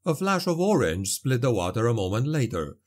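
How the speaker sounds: usual speaking voice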